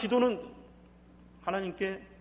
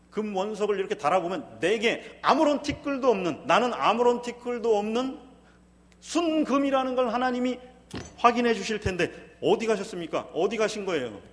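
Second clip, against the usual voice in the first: rising, louder protest to God; protesting innocence; 3 semitones higher, 5 dB louder than usual. Acted. Preacher voicing Job's protest to God, louder insistent plea. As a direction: insist on your innocence, building.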